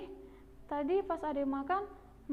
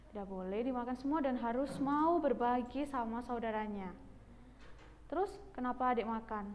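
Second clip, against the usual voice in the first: lower, softer motherly telling-off; lightly voiced mother, gently reproving; 3 semitones lower, 4 dB quieter than usual. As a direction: explain the rule to a child patiently but firmly. Plays Mama lecturing the child.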